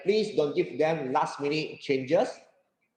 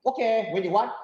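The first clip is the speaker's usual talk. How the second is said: welcoming change; 6 semitones higher than usual. Acted. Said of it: "they are welcome change".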